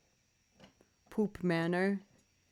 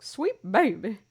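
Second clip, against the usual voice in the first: louder, sing-song coo of the name; 3 semitones higher, 6 dB louder, slower than usual. Retold or imitated. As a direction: coo it like calling a pet. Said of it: "I would just be like".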